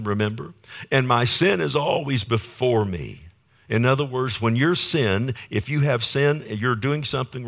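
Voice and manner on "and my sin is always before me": retold cry in a raised voice. Preacher quotes David confessing sin, crying out. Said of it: "That's what David's crying out".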